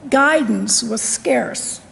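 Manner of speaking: ordinary talk, nothing marked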